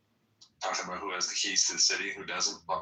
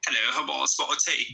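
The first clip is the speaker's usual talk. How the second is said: mock British accent; 4 semitones higher than usual. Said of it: "British accent to mock me".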